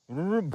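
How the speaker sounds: loud, high sputtering motor noise; loud vocal mower sputter; imitated mower noise. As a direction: imitate an engine revving and dying. Imitating the mower starting and dying.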